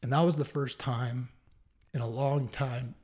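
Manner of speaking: halting, a touch choked up; getting emotional. Real, not acted. Man recalling feeling the Spirit, getting emotional. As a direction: hold back real emotion between long pauses. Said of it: "I don't mean to get emotional".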